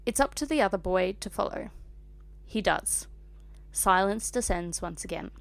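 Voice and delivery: measured audiobook-style reading; story narration. A narrator's reading. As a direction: read the story aloud with care. Reads fan fiction aloud.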